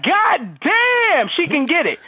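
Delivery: high admiring catcall; a hint of her brother ogling; brother's catcall. Retelling how his brother reacted, mock catcall. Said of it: "this how he said it".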